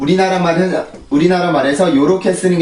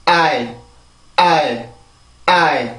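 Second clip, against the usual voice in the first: I said as one stressed glide, ah into ee; stressed English I; much slower than usual. Shown as a demonstration. Teacher modelling the stressed vowel of ice for students. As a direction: lean on I, one beat. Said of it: "한 번 더".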